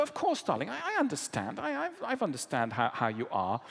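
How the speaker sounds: understanding wife. Retold or imitated. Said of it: "And she would go".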